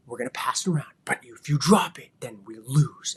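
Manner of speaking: hushed, conspiratorial whisper with a loud burst on drop; secretive whisper. Shown as a demonstration. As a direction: build suspense for the kids in a whisper. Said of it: "That's not how you do it. You go".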